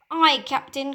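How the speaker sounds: loud, high eager reply; loud aye. Acted. Smee obeying the fake captain, loud. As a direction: bellow back obediently. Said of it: "cried Smee".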